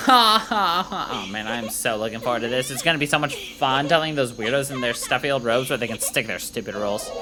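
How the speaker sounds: lightly voiced bubbly valley girl; a hint of a chirpy valley girl. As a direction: play the hyped valley girl soldier, like, totally. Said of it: "uh, valet voice".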